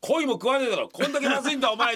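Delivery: loud, high mock villain sneer; devilish Yasu. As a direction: ham up a nasty bully. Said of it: "あの悪魔のヤス".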